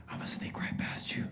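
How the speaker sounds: hushed, fully whispered aside. Retold or imitated. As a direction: imitate a sweet lady's soft whisper. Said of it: "she whispers on the back of my neck".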